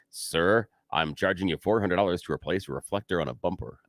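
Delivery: deadpan mock shop manager, slightly subdued; straight-faced. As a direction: deliver the absurd price with a straight face. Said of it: "with a straight face say".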